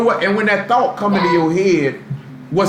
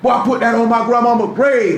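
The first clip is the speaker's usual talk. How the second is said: pitched-up mock oath; demonstrative swearing; 5 semitones higher than usual. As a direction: sell the oath too hard, mockingly. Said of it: "the demonstrative stuff, trying to sell it to me".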